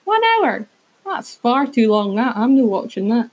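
a hint of a grumpy Scottish dad; dad's complaint. To the podcast, voicing her dad complaining, lightly mocking. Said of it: "'cause my dad said".

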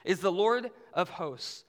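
high, loud proclamation, slowing toward the end; ringing call of praise. Acted. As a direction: cry it out like angels praising, easing down. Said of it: "one called out to another".

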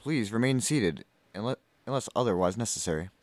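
in-flight announcement; flight attendant voice. Pretend. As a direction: airline cabin announcement. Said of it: "can you do that in your stewardess voice".

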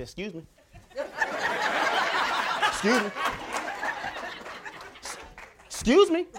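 polite excuse me through laughter; laughing as you squeeze past the line; retold excuse me, said laughing. Pushing back past people, laughing.

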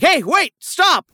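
mock guard yelling wait, stop; retold yell. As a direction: call out after the fleeing boys. Guard yells after thieves.

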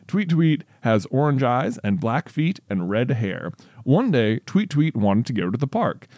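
deliberate, lilting storybook reading; story read-aloud. Real, not acted. Reads child's story aloud.

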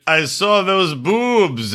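slowly imitating Michael; slow mock Michael. Host retelling Michael's line, slowly imitating him. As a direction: drag it out like Michael. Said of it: "he's like".

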